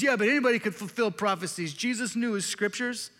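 lightly put-on New York accent; a touch of New York in a heckler's objection. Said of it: "like, a New York accent".

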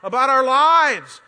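loud, fed-up yell at a preachy friend; angry friends shouting back at the preacher. Retold or imitated. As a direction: bark it like you've had enough of him. Friends yelling while locking him in.

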